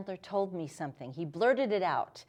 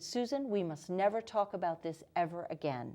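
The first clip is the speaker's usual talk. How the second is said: softer, steady and calm; a hint of a handler's cool warning; very calmly; 2 semitones lower, 7 dB quieter than usual. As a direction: quietly shut the subject down. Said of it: "very calmly".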